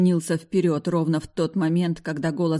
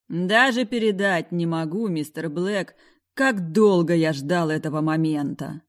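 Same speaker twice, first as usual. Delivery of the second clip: venomous; 4 dB louder than usual. Acted. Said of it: "ядовито произнёс Паркер".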